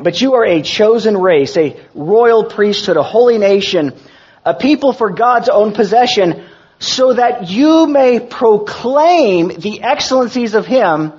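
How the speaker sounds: measured, solemn Bible reading; scripture reading. Acted. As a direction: read the verse with weight. Reads scripture aloud.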